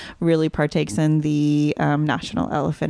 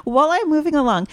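laughing; 8 semitones higher than usual. Real, not acted. Laughing, hurrying past the topic.

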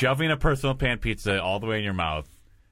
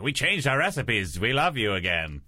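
creepy wizard voice. Retold or imitated. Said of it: "That's your creepy wizard voice".

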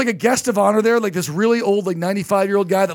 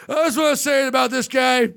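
put-on drunken speech; 3 semitones higher than usual. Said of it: "he gives this speech".

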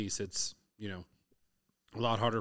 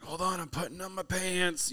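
put-on much higher eager kid voice; daughter voice; 9 semitones higher than usual. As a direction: play the excited little girl hurrying. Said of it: "she's like".

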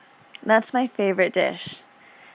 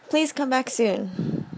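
very slow, higher, sugary put-on voice; fake sweet farewell; 4 semitones higher, much slower than usual. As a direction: drag it out like a lie you don't mean. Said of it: "I'm just gonna throw in a bonus lie".

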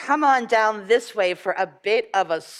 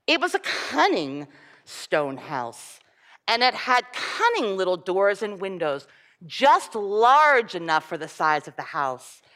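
put-on lively storybook reading for children; story reading. Reading a fairy tale aloud to children.

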